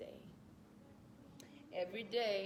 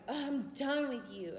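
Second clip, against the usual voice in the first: upset; 6 semitones higher, 4 dB louder than usual. Retold or imitated. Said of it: "she was so upset".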